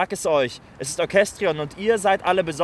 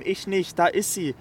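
usual speaking voice

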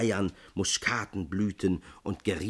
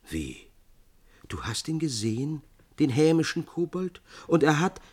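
deep astonishment; 7 semitones higher than usual. A narrator's reading. Ännchen stunned that Amandus met the goblin, astonished. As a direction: burst out in disbelief. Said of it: "im tiefsten Erstaunen".

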